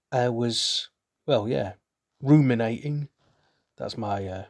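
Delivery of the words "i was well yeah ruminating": lightly voiced yeti, a touch louder; a hint of a big friendly yeti; Bentley the Yeti voice. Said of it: "Bentley the Yeti voice".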